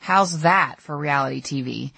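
dry, sarcastic quip; a light touch of sarcasm. Retold or imitated. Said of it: "he said sarcastically".

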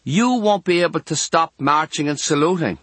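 put-on high girlish chatter; girl's voice. A narrator's reading. Girl to younger boy next door, girlish voice.

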